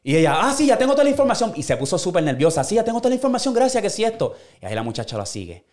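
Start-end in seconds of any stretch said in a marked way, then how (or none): 0.4-1.5 nervous voice. Retold or imitated. Nervous woman quoted in retelling. 2.6-4.4 nervous voice. Retold or imitated. Nervous woman quoted in retelling.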